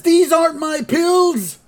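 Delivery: put-on high, slow cranky old-man squawk; indignant old man. Grandpa protesting to the nurse, high and indignant. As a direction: complain like an outraged grandpa. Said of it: "And he says".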